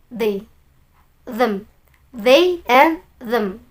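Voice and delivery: "they" and "them" slow, low, voiced th; touch the tongue lightly for "they" and "them"; modelled th pronunciation. Shown as a demonstration. Teacher drills the pronouns, slow "they" and "them" with th. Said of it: "Lidahnya sedikit-sedikit".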